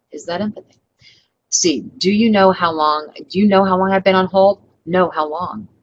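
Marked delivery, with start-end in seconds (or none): 1.8-4.6 rising, louder exasperated complaint; exasperated customer. Shown as a demonstration. Customer complaining on hold, example. 4.8-5.7 dry sarcastic comeback, flat. Shown as a demonstration. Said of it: "One of them is pure sarcasm".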